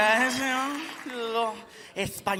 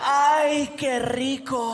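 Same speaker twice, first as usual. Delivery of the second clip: sultry commercial model; 3 semitones higher, much slower than usual. Pretend. Sexy Spanish commercial model.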